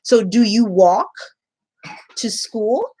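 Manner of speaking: put-on high, sing-song teacher voice asking kids. Shown as a demonstration. Teacher asking young students about walking to school, high and sing-song. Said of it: "It's like".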